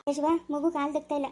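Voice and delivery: speaking through tears; worried mother tells Yashava through tears; tearful. Acted. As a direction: voice caught in a sob. Distressed over baby's condition.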